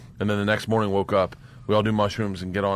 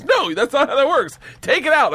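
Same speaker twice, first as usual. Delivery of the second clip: raised, high-pitched imitation of an exasperated boss; retold angry manager; 5 dB louder than usual. Manager ordering the comic to remove drugs, retold angry outburst. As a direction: act out the boss loudly refusing.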